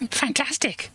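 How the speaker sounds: high, delighted praise; excited. A narrator's reading. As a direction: gush over it. Princess cheering the dragon.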